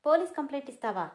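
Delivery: "Police" hit loud and fast in scorn; mocking retort. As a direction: fling her words back, fast and scornful. Husband throws her threat back.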